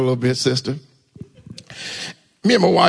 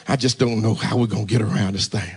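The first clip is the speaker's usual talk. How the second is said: lower, softer, laughing mock grumble; mock worried grumble; 10 semitones lower, 3 dB quieter than usual. Pastor mocking his own tax worry, laughing mock grumble. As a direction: laugh through a sulky complaint. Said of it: "I'm getting worse and worse".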